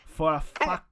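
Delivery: hammed-up meathead mocking a name; mock tough guy insult. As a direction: spell out the insult like a swaggering bully. Acting out the confrontation.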